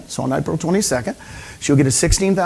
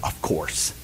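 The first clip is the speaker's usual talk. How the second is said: mock offhand reply; 13 semitones lower, 11 dB quieter than usual. Nicole's offhand reply, retold.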